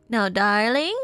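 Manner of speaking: put-on loud, fumbled try at a French accent. Reader correcting her own attempt, mock French accent. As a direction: have another go at a French "darling". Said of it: "how to do it in French accent".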